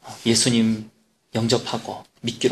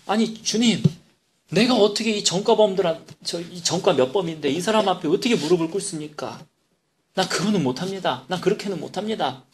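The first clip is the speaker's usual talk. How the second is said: higher, earnest protest to the Lord; pleading with God; 4 semitones higher than usual. Retold or imitated. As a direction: beg off, voice raised in pitch. (주님께 높은 목소리로 항변하며 버티는 교도관)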